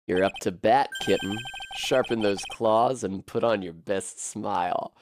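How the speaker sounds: a hint of a cocky rival; Diego.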